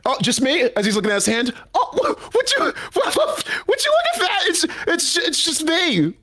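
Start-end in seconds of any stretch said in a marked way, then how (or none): 1.7-6.1 flustered high panic. Acted. Son caught out by dad, stammering in squeaky panic. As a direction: voice jumps way up, stammering.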